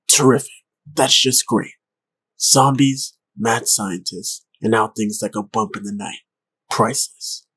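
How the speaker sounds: loud sarcastic exasperation. Acted. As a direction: spit out bitter sarcasm. Chris sarcastic rant.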